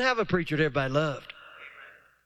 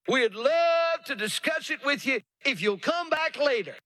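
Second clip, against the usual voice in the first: higher, wheedling put-off voice; delayer's excuses; 4 semitones higher than usual. Retold or imitated. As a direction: stall the preacher with polite excuses. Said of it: "They're delayers".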